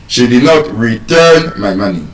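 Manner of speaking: "return" pressed and held, then fall away; stress on RETURN. Shown as a demonstration. Teacher rules out other meanings, stress on "return". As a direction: lean on "return" as the key word. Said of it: "So this time around, what are we saying".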